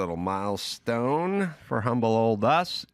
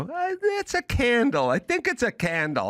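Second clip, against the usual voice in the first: dopey mock voice; 10 semitones higher than usual. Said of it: "And they go".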